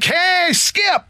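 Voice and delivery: high shout to the manager; excited shout. Retold or imitated. Fan in the clubhouse hollering at the manager, high excited shout. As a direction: call out to Skip over the party. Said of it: "I'm like".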